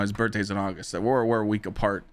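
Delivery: usual speaking voice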